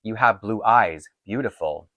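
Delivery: slow, lightly put-on Mexican accent; imitating a thick Mexican accent. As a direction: echo his halting Mexican-accented English, a mild touch. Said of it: "he said this, but with a really thick accent".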